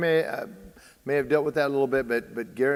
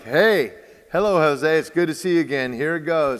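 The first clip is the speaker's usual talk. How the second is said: loud, higher-pitched hearty hello; confident welcoming greeting; 3 semitones higher, 5 dB louder than usual. Acted. Pitcher greeting a feared batter in his mind, confident welcome. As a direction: greet the rival like an old acquaintance. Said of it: "that's a way different feeling".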